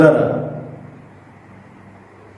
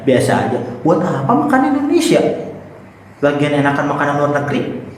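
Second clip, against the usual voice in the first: put-on arrogant rich kid. Shown as a demonstration. Acted boastful rich kid.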